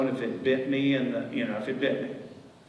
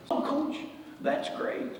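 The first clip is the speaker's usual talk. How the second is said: high mocking voice; 13 semitones higher, 5 dB quieter, slower than usual. Other dad's reply, mocked.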